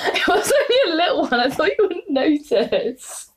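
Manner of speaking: sheepish high voice, slowed down; high mock-innocent voice. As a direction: pretend to be caught out, innocently. Voicing game character, fart joke.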